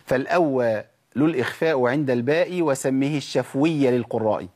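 slow chanted recitation of a poem; measured rhythmic reading; recited verse. Shown as a demonstration. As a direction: recite the verse line slowly like a student. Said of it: "بتقول المتن بتقول".

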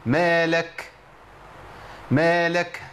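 مالك with an h puff on the final k; faulty مالك, whispering release turned into h; ha after kaf. Shown as a demonstration. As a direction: recite مالك slowly, ending in a throaty h breath. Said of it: "سمعت مني هاء".

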